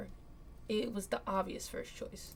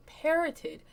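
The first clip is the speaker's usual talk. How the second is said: nasally parroting; 9 semitones higher, 4 dB louder than usual. Acted. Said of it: "parroted Derek's words in a nasally voice".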